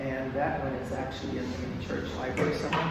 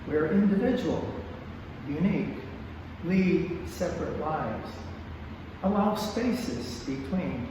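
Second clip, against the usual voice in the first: poetry reading. Acted. Poet reading a dedication for families to a church audience, measured poetry reading. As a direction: give each short phrase its own space, falling at the close. Reads a dedication poem aloud.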